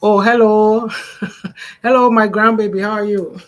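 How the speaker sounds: high, loud cheerful hello to a grandbaby; greeting the grandbaby who walked in, high and loud; bright greeting to grandchild. Real, not acted. Greeting grandchild mid-talk.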